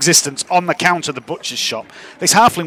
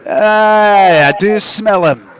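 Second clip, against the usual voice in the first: sniffing mushroom creature; much slower than usual. Acted. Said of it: "And he goes".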